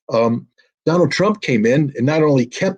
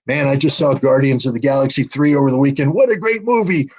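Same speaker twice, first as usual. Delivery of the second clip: mocking clueless moviegoer. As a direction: sneer at people who only care about the weekend movie. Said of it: "everybody tonight went to bed thinking".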